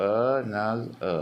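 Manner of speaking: "എ, നാസ്, എ" as three detached beats; syllable by syllable. Shown as a demonstration. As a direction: pause after each syllable of "another". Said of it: "മൂന്ന് syllable ഉണ്ട്". ("എ, നാസ്, എ" മൂന്നായി മുറിച്ച്)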